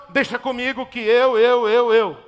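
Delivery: boastful, insistent repetition; Lúcifer. Acted. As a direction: lightly act out self-importance, punching each repeat. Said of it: "Isso é Lúcifer". (voz presunçosa e insistente, levemente imitada)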